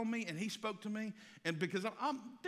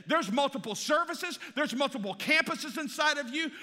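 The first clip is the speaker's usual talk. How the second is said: prophetic declaration; 9 semitones higher, 9 dB louder than usual. Retold or imitated. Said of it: "She said".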